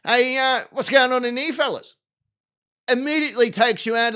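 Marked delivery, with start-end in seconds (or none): 0.0-1.9 lightly voiced casual Aussie Bond; Aussie James Bond. Bond strolling into the enemy lair, lightly hammed casual Aussie. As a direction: breeze in like a mate at the pub. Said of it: "James Bond's like".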